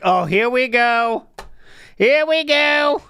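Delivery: put-on slow, drawn-out lightly accented "Here we go"; slight accent. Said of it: "thing with a slight accent".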